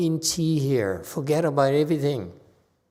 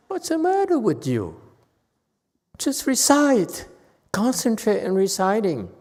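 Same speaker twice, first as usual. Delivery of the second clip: exasperated scolding; 4 semitones higher than usual. Real, not acted. Master scolding students.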